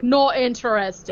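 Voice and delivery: slow, slightly put-on refusal; drawn-out mock brush-off; bad character impression. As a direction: lightly attempt a film character's voice. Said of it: "not at all what his voice sounded like".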